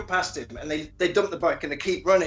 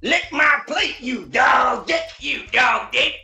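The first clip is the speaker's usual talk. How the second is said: high, loud, slowed yell of abuse; mock shout; 6 semitones higher, 4 dB louder, slower than usual. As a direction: bellow it like a cornered madman. Quoting the panicky man's yelled line.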